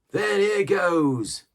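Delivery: loud, high, slow furious cry; angry oath. A narrator's reading. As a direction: spit it out as a curse. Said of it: "said Morgan with an oath".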